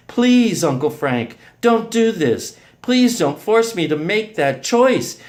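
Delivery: high, loud begging; urgent, anguished appeal; pleading. A narrator's reading.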